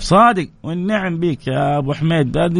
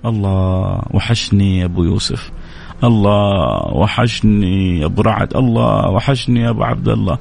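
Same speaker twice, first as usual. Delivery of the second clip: mock wistful longing; 5 semitones lower, slower than usual. Woman regretting the divorce.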